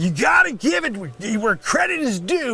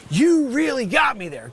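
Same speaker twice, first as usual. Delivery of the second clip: same line pushed up and shouted; louder exasperated repeat; 3 semitones higher than usual. Acted. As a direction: yell it the second time.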